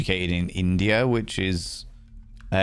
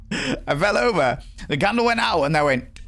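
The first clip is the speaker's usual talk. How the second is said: giggling retelling; 9 semitones higher than usual. Real, not acted. Streamer laughs at falling over in the game, giggling. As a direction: squeak it out through giggles.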